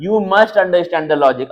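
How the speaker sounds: slow, deliberate reading of the point; slow reading aloud. Shown as a demonstration. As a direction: read it out word by word. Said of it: "अब क्या काम करेगा?". (धीरे-धीरे पढ़कर सुनाना)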